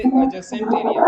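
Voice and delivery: adjacent said "a-jacent", no D; silent D. Shown as a demonstration. Teacher gives an example of the rule, silent D in adjacent. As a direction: slowly model adjacent with the D left out. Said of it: "डी silent रहता है, जैसे".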